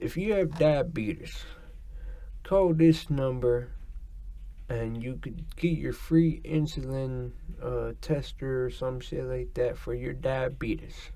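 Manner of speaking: slow, lightly voiced old commercial pitchman; old diabetes ad guy. Podcaster imitating an old diabetes commercial, slow mock pitchman. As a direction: drawl it out like a half-remembered TV ad. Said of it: "Who's that guy that speaks like that?".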